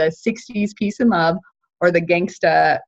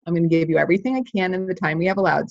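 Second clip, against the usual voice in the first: quick promise; faster than usual. Shown as a demonstration. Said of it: "And then you tell them".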